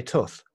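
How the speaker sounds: "tooth" with a short oo; Redditch pronunciation. Shown as a demonstration. Holding to own local way, tooth with short oo. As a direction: say "tooth" with the oo of put. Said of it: "tooth is very much a Redditch thing".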